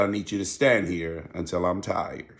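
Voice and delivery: softly retold teacher's order; calm, authoritative. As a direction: lay down the rule quietly. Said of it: "talked to him in a real calm voice".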